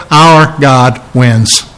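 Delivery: slow, firm and confident; bold declaration. Retold or imitated. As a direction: plant each word like a victory claim. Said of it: "we can boldly stand and say".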